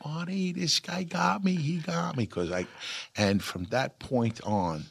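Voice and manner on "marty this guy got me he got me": laughing. Retold or imitated. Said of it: "he starts laughing".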